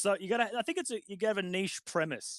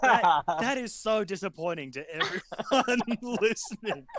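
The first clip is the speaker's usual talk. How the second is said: laughing; 3 semitones higher than usual. Real, not acted. Laughs while speaking.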